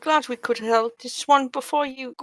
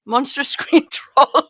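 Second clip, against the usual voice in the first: laughing; 7 dB louder, slower than usual. Real, not acted. Describing own troll transformation, laughing.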